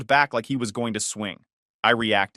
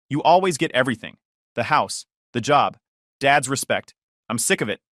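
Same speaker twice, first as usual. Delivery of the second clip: angry outburst. Acted. Brother rants at his brother, angry and fast. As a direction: spit out years of jealousy fast. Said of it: "breathing hard, face getting red".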